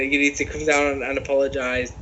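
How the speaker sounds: put-on botched American redneck accent; A J Styles redneck accent. Co-host retrying the apology demand, badly faked redneck accent. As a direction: have a poor go at a redneck accent. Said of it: "I can't even do the fucking stupid accent".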